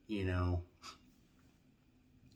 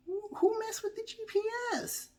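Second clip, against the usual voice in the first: much higher, squealing alarm; shrieking panic. Retold or imitated. Yelling at the GPS in the car, high shrieking panic. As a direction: squeal like the car has turned on you.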